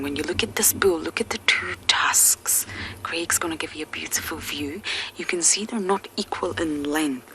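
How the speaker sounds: hushed safari whisper. Real, not acted. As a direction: whisper so the elephants stay calm. Whispering near the elephants.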